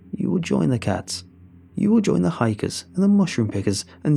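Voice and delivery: lightly voiced witch making threats; menacing hag. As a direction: gloat over your captive, emphatically.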